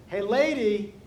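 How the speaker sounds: sudden swooping heckle; parrot calling out. Acted. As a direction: pipe up like a cheeky parrot. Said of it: "And the bird says".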